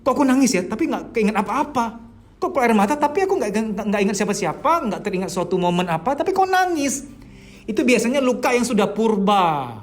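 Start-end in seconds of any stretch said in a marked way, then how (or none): 0.0-7.1 confused. Pretend. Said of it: "Anda mungkin bingung".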